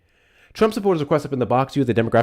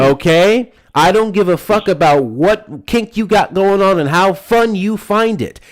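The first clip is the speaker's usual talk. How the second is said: loud, raised, furious warning; angry yelling; 5 semitones higher, 6 dB louder than usual. Real, not acted. Host yelling a warning at a creepy caller, furious. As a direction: yell the threat high and hard at him.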